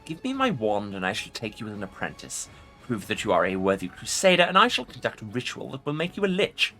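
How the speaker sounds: impatient ancient lich; ancient rasping undead king. Acted. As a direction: brush off the question as the lich. Lich voice continues.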